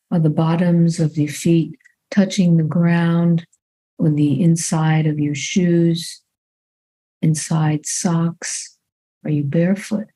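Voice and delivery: calm, unhurried meditation guidance with long pauses; measured body-scan voice, phrase by phrase; guided meditation. Real, not acted. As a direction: guide them gently into the body, leaving long silences.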